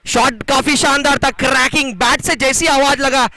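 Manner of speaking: lively cricket play-by-play; live commentary. Acted. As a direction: call the match as it happens.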